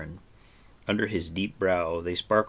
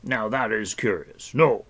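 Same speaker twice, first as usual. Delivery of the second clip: put-on puzzled old hermit; 4 semitones higher, 4 dB louder than usual. A narrator's reading. Old hermit answers Terran's hope, puzzled. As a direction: wonder at it gently.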